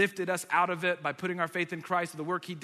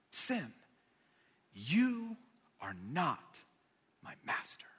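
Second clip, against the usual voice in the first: hushed declaration; 2 semitones lower, 5 dB quieter, much slower than usual. Shown as a demonstration. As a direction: speak it quietly to yourself. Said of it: "It's a declaration".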